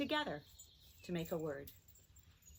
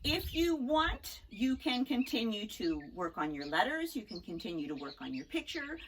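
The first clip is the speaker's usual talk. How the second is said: ordinary delivery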